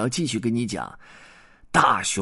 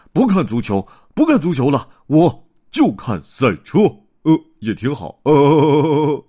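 resigned bear; 7 semitones higher, 9 dB louder than usual. Acted. Bear settles for car racing.

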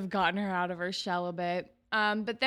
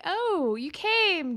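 high, louder coy greeting; flirty mock greeting; 9 semitones higher, 5 dB louder, much slower than usual. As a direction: play it up as a flirt. Manny voiced greeting Craig.

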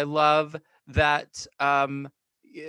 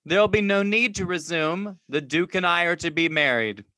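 quoting the show; 2 semitones higher than usual. Retold or imitated. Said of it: "As, quote".

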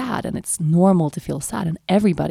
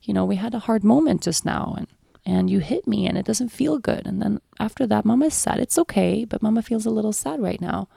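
put-on gentle to child; 4 semitones higher than usual. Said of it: "I said".

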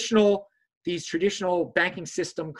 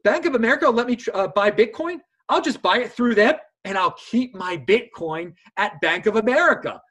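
lightly voiced eager customer, raised pitch; a touch of naive enthusiasm, pushed a little louder; impressed bank customer; 4 semitones higher, 4 dB louder than usual. People imagined trusting the bank with their Bitcoin, mock impressed. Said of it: "people are gonna be like".

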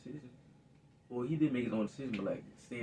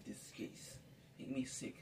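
breathy mock disgust, much softer; disgusted parent; 11 dB quieter, slower than usual. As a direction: hiss it out like a let-down parent. Mocking a disappointed parent.

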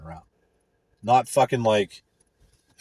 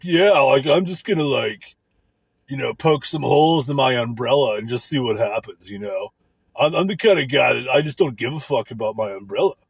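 imitating a try-hard cool guy. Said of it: "he just tries to sound, like, cool".

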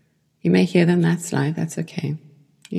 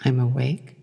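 calm meditation voice with long pauses; unhurried, soothing yoga nidra guidance; guided meditation; 5 dB quieter than usual. Acted. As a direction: guide them gently into rest, leaving space between phrases.

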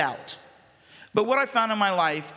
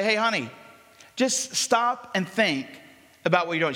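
gentle wifely nudge. Retold or imitated. Wife gently urging her husband to pause and think. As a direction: coax him kindly to pause. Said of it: "She doesn't say it like that".

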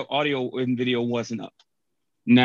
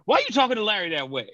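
high, fast indignant telling-off; hammed-up sassy rebuke, pitched up; mock Loretta scolding; 8 semitones higher, much faster than usual. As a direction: rattle it off like an offended sitcom wife. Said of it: "she'd be like".

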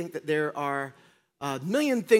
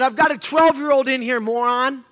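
high, loud imitated comeback; mock retort; 8 semitones higher, 10 dB louder than usual. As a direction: shoot back at him. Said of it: "I said".

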